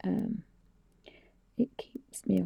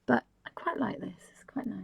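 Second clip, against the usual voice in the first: talking between sips of tea; words around a slurp of tea; sipping hot tea. Real, not acted. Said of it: "Do excuse me slurping".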